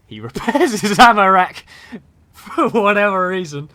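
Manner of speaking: loud, high outburst of disbelief; high-pitched, incredulous yelling; incredulous shout. Real, not acted. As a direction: shout it in excited disbelief at the play. Incredulous live commentary on a game.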